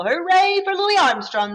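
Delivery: high, excited cheer; cheering boys. Acted. Boys cheer for Louis after his solo, high and excited. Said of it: "the boys cheered".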